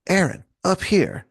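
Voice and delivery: high call from above; calling from the sky. Pretend. Hercules calling down to Aaron, high pitched. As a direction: sing the name up high.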